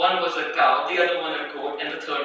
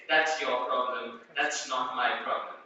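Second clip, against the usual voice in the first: low, heavy dismissive cow; a hint of a lumbering cow brushing it off; lower cow voice; 5 semitones lower, 4 dB quieter than usual. The cow to the pleading mouse, low and dismissive. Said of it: "in its very own fashion".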